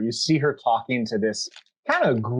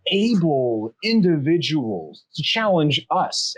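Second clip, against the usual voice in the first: higher, grand tiefling invitation; 5 semitones higher than usual. Acted. Tiefling inviting the party to a challenge, grand. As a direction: lay it on formally. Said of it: "tiefling walks over and says".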